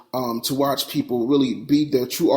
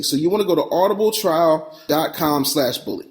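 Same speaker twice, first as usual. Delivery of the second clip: normal talking voice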